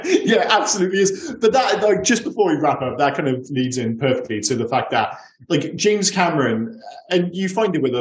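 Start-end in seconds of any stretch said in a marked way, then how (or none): 0.0-2.5 laughing agreement. Real, not acted. Co-host agreeing with a joke about the film, laughing. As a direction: still laughing while agreeing.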